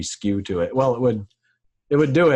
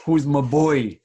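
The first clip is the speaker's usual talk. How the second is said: high, louder cooing at a pet; pet baby talk; 5 semitones higher, 5 dB louder, slower than usual. Retold or imitated. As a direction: gush over the dog. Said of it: "the crazy person voice with your animals".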